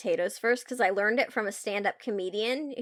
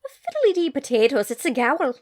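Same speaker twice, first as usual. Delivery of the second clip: lilting mock Irish accent, a bit louder; hammed-up stage Irish; playful Irish brogue, lightly done; 3 semitones higher, 4 dB louder than usual. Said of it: "pretty spot-on accent you just did".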